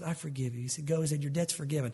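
soft, low-voiced king granting pardon; gentle king. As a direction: forgive him quietly and kindly. King forgiving the debtor.

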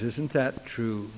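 low, slow, softened question; quiet question. Retold or imitated. Preacher pressing the young convert on her answer, quiet and slow. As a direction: ask it quietly, drawing it out. Question put softly, then louder.

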